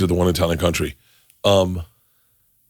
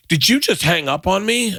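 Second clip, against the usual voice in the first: higher-pitched, incredulous mock outrage; retold indignation; 9 semitones higher than usual. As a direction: imitate an offended caller. Retold booker outraged at hang-up.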